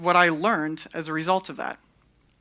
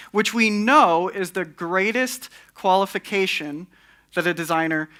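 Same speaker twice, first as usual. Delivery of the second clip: sarcastic. Real, not acted. Speaker mocking award-winning designers to an audience, sarcastic. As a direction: deliver it as sincere praise you don't believe. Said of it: "That's sarcasm".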